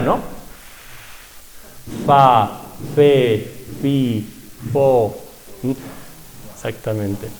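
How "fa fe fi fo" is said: soplar: blow "Fa, fe, fi, fo" through the lips; blown bilabial F. Shown as a demonstration. Teacher drilling the blown Muisca F. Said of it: "es como soplar".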